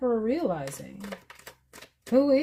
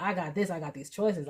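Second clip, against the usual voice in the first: laughing while quoting; 2 semitones lower, 5 dB quieter than usual. Retold or imitated. Laughs while voicing Emperor.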